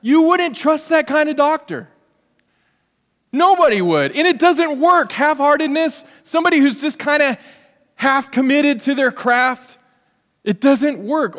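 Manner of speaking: high, loud preaching; preacher hammering half-heartedness, high and loud; preaching at full force. Real, not acted. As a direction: drive the point home from the pulpit.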